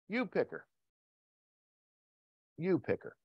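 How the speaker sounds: soft, humble plea; hushed prayer. Acted. Man asking God to choose his wife, hushed plea. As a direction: drop suddenly to a gentle hush.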